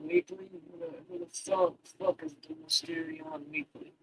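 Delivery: high incredulous squeak; squeaky high disbelief. Real, not acted. Confused reading of a name.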